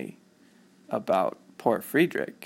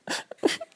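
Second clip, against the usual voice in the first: mock crying. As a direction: pretend sobbing in short bursts. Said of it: "and he would cry".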